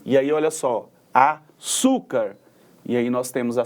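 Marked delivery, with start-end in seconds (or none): 1.1-2.4 "açúcar" very slowly, leaning on "çú"; stress on penultimate syllable. Shown as a demonstration. Teacher illustrating paroxytones, drawn-out stress on "açúcar". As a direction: stretch out the "çú" in "açúcar". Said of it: "sílaba tônica na penúltima sílaba".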